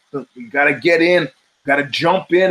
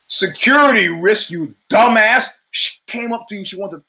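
exasperated; 6 semitones higher than usual. Retold or imitated. Mocking his past self to bouncers.

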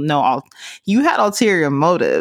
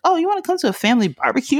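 much higher, fast casual invite; imitating boyfriend; 10 semitones higher, much faster than usual. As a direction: toss it off breezily like it's nothing. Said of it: "he's like".

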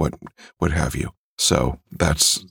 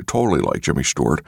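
quick full-on actor impression; Jimmy Stewart; faster than usual. Shown as a demonstration. Narrator contrasts full impression with his character, actor's voice. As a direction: do the famous actor outright, quickly. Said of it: "instead of talking like".

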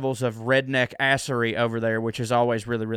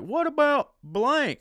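high-pitched, drawn-out mock fan voice; imitating fans; 14 semitones higher, slower than usual. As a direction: mimic pestering fans in a slow falsetto. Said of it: "a bunch of people like".

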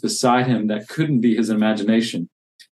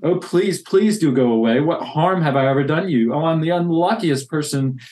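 pleading in fear; 3 semitones higher than usual. Acted. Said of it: "feeling sorry for himself again".

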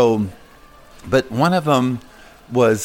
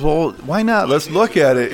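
quoting his friend; 7 semitones higher than usual. Retold or imitated. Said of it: "He goes".

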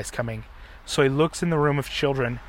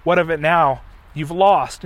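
gloating villain; 3 semitones higher, 7 dB louder than usual. Retold or imitated. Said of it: "the Chosen, starts laughing".

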